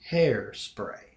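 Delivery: Hairspray said slowly, weighed by halves; deliberate, pondered "Hairspray"; slow word. Shown as a demonstration. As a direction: draw out HAIR, let spray fall. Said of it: "slowly and think about the word".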